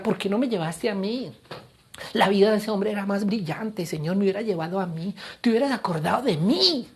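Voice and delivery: mildly acted reproach, lifting at the end; a touch of aggrieved pleading; bitter complaint. Pastor retells reproaching God for not taking him, bitter complaint. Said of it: "en momentos de amargura".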